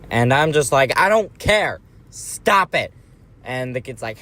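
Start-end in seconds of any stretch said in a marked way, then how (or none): 1.0-2.9 mock yell. Usher yelling at the dad.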